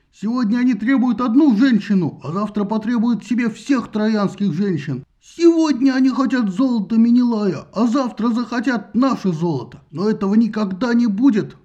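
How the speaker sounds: loud, fiery defiant speech; rally the council against the envoys; defiant oration. Acted. Trojan defies Greek envoys in council.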